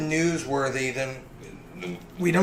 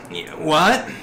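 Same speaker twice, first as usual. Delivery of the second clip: groggy voice; 2 semitones higher than usual. Acted. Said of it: "you hear a very groggy voice".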